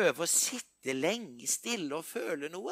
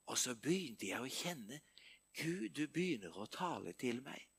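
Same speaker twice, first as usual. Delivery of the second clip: whispered confession; 5 semitones lower, 9 dB quieter, faster than usual. Real, not acted. Intimate retelling of prayer.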